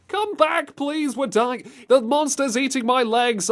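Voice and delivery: high, frantic villager cries; hammed-up desperate appeal; mock panicked pleading. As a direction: beg the heroes to come back. Acts villagers begging hunters for help.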